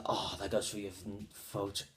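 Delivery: Howard the Duck. Retold or imitated. Duck in a broken cage, low soft mock grumble. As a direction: mumble it low and quiet as the duck. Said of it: "he goes".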